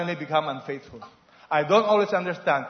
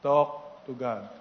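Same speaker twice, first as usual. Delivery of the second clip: drawn out and lower for the crowd to echo; slow call to repeat; 6 semitones lower, 5 dB quieter, much slower than usual. Shown as a demonstration. Preacher leads the congregation in repeating, slow and low. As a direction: lead the room through it word by word. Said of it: "Say that with me".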